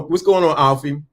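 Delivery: usual speaking voice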